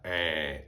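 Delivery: "eh" drawn out as a flattened Australian sound; a demo of flat Aussie "eh"; flattened Australian vowel. Shown as a demonstration. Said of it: "when they just flatten everything".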